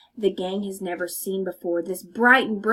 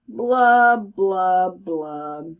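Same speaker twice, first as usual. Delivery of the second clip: sinking blubs; 5 semitones lower, 5 dB louder, much slower than usual. Acted. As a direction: let the blubs sink and die out. Fish's sad refrain.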